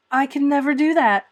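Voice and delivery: high, loud and determined; determined and dark. A narrator's reading. Anne refusing to apologize, determined and dark. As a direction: refuse flatly and darkly. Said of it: "said Anne determinedly and darkly".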